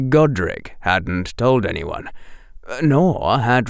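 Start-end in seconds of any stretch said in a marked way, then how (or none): none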